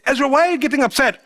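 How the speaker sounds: quick, hurried wife's question; lightly voiced wife. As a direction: rush it out like the wife asking. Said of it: "my wife may say".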